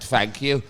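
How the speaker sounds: "Thank you" with the TH said as F; retold "Thank you", opening on an F; accented thank you. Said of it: "'cause of my accent".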